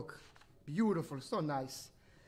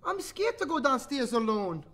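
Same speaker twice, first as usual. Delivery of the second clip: higher child's pleading, lightly acted; scared little sister; 4 semitones higher, 4 dB louder than usual. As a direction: plead like a small girl, mildly afraid. Story sister says she's scared.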